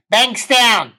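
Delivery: high, loud mock bellow; exasperated yell. Passenger repeats suburb for driver who missed it, exasperated yell. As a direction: drop the sobbing and belt it out.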